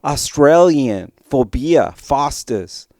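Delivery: drawn-out bad Australian accent; clumsy, slow Australian twang; attempted Australian accent. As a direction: slowly attempt an Aussie accent. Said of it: "they have this cool Australian accent".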